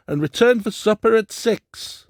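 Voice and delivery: high, loud call; shouting. A narrator's reading. Doctor calling after the departing pair, loud shout. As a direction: keep shouting after them. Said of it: "shouted the doctor".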